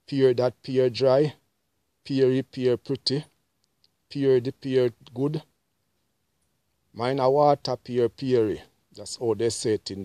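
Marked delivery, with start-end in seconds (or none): 0.0-8.6 haggling customer. Retold or imitated. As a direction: quiz the vendor about his pears. Customer quizzing the pear seller.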